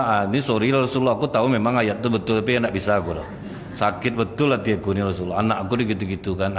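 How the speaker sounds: low, hurt plea to the Prophet; lightly voiced pained complaint. Abu Bakar pleading to Rasulullah, mildly pained. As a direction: pour out a wounded father's hurt, lightly.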